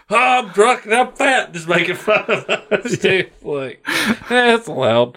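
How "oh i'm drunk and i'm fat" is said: raised-pitch British caricature; silly high British jeer; mock British. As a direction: mimic Brits making fun of us. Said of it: "sitting over there like".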